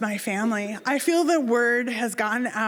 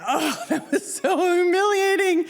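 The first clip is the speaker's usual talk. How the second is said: higher-pitched wail with a laugh in it; mock humiliation; 7 semitones higher than usual. Diver lamenting the failed dive, mock-mortified. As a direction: play up the embarrassment, half laughing. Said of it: "On the one hand, I could say".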